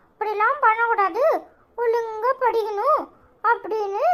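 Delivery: laughing through words. Retold or imitated. Laughs retelling principal's advice.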